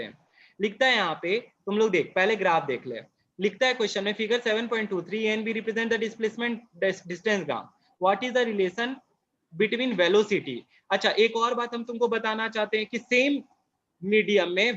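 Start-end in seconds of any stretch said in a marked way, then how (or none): 4.2-10.6 reading the question very slowly; slow dictation. Acted. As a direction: read the board question out for notes.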